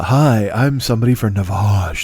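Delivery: slow, low, creepy pitchman. Retold or imitated. Mocking the Navage ad man, slow creepy pitch. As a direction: mimic a creepy ad announcer. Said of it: "The way he says it is so creepy".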